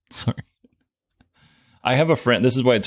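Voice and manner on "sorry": breathless, voiceless giggle through the word; can't stop giggling while apologizing; laughing apology. Real, not acted. Host apologizing to patron for laughing, giggling sorry.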